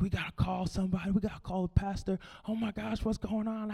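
panicking. Retold or imitated. Parents freaking out, retold.

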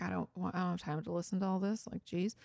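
understated mock impatience; dismissive. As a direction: brush it off under your breath. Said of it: "you're downplaying or dismissing their issue".

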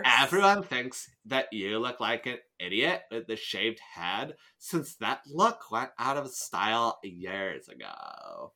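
put-on bored drawn-out Valley Girl valley-speak. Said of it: "you can hear in a Valley Girl voice".

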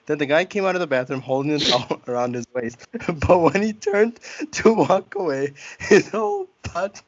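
losing it completely while reading; cracking up mid-sentence. Real, not acted. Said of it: "Yeah, because I kept laughing".

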